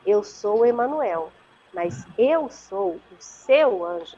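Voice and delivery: slow, soothing voice of a guardian angel, retold; soft creamy voice. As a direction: imitate an angel gently revealing himself, unhurried. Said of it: "assim, suave, cremosa". (imitando um anjo da guarda, suave e pausado)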